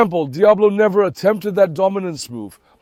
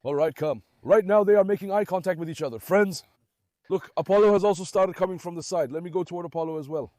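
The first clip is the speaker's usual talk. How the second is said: softer, murmured observation; quiet play-by-play watching the standoff; hushed commentary; 8 dB quieter than usual. Real, not acted. Hushed commentary on tense dogs.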